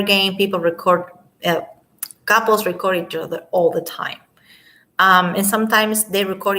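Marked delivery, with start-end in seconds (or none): 2.2-4.2 whisper. Real, not acted. Whispered aside to viewers.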